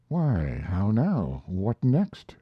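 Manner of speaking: lightly surprised, rising questions; a touch of disbelief; mild exclamation. Acted. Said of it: "exclaimed I".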